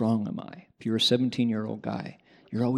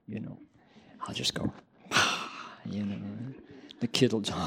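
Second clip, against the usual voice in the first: skeptical inner thought; 7 dB quieter, faster than usual. Retold or imitated. Doug privately doubting the monk's mantra, quiet and sighing. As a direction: mutter the doubt under your breath. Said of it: "Doug's thinking".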